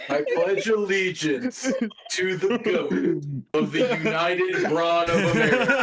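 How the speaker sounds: mock pledge recital.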